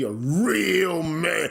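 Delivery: drawn-out, mocking stress; sarcastically stretched catchphrase; mocking emphasis. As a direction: stretch the words out in mockery. Mocking demand to be manly.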